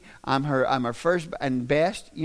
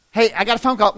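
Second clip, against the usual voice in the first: louder, higher call for attention; acted interruption; 7 semitones higher, 8 dB louder, faster than usual. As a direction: play someone breaking in with news. Acts someone announcing a call.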